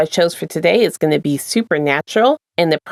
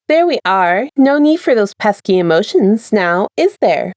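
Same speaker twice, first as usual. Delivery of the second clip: lightly sing-song attendant; sing-song chime. Acted. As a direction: chime it sweetly. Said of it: "chimed in a sing-song voice".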